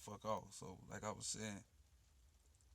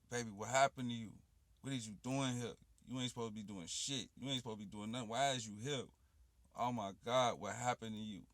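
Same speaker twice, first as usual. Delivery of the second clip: loud, mildly raised retelling of a stunned woman; retold trance outcry; 6 dB louder than usual. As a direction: retell her shocked questions, pushing louder on key words. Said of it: "that's when she went into trance".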